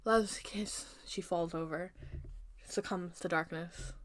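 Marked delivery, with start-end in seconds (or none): 0.0-1.0 soft, failing attempt to speak; faint, mildly strained murmur; weakened effort. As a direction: barely get the words out while collapsing. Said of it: "with all her might, she tries to say".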